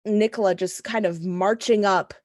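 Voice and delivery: ordinary delivery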